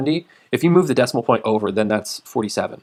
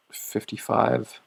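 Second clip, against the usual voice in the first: talking through a yawn; 4 semitones higher, 3 dB louder than usual. Real, not acted. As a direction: stretch the words in a big yawn. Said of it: "Excuse me, I'm yawning".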